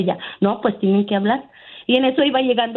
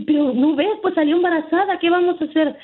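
higher pleading voice, hammed-up; mock distressed wail; 6 semitones higher than usual. Caller mimics sister-in-law's distress, higher and pleading. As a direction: play the worried mother, pitched up. Sister-in-law crying, retold.

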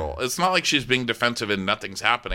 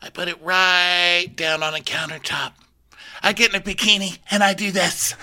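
Rinna; 7 semitones higher than usual. Retold or imitated. Rinna narrating her dance video setup, high mock drama. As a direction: stretch it out high and grandly. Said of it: "Okay, Rinna".

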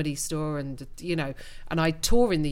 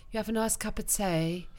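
softer Cockney impression; Cockney imitation; 2 semitones higher, 5 dB quieter than usual. Englishman imitates someone he knows, light Cockney. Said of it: "I know someone who talks like".

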